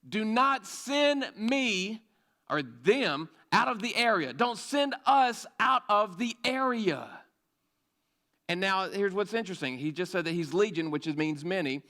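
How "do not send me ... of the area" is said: a hint of slow, drawn-out begging; pleading demon. Preacher voicing the possessed man pleading with Jesus, lightly slowed plea. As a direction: stretch the words out as if begging to stay.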